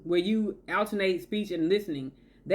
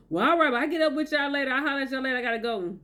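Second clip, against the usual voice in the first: brush-off; 4 semitones higher, faster than usual. Acted. Acting a bored listener bailing out.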